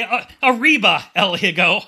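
cheer. Acted. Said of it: "we say".

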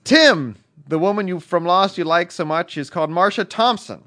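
quick reading in a put-on British accent. Reading a listener's letter aloud in a quick British accent. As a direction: rattle off the letter like a Brit. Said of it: "you ran through Tim's with the British accent really fast".

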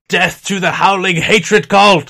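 loud, drawn-out monster war cry; bellowed accusation from a mob of bugbears; yelled battle cry. Acted. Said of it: "yell out".

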